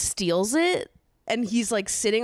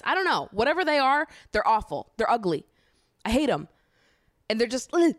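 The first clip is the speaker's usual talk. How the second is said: high, disgusted rant; annoyed ugh; 5 semitones higher than usual. Real, not acted. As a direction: spit out the disgust. Disgust at Mister Meaty.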